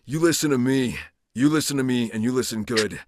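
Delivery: lightly voiced game character laying down terms; measured warning, slowing on the final line; Kyle Crane. Shown as a demonstration. Actor as character grants one last favor, measured character voice. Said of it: "I'm trying to think Kyle Crane".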